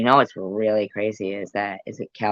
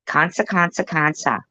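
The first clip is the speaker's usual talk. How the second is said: mock Survivor girl; 6 semitones higher than usual. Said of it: "always talking about a fucking cancer".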